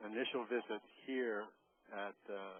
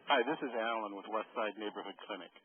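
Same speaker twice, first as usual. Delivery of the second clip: louder and close to the mic; clear and louder; 6 dB louder than usual. Real, not acted. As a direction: say it clearly so they hear. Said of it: "Yes, much better".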